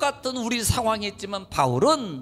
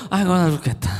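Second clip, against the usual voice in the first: mock moaning in pain; 3 semitones lower, faster than usual. Shown as a demonstration. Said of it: "요렇게 있어야 된다니까요".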